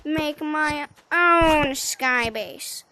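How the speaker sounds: slow, drawn-out indignant insistence. Acted. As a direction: lay it out slowly, offended. Indignant refusal of offered bushes.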